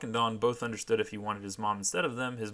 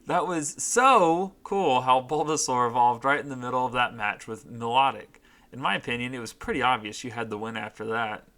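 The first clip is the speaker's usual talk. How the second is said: character voice; 2 semitones higher, 7 dB louder than usual. Acted. Voicing letter from fanfic.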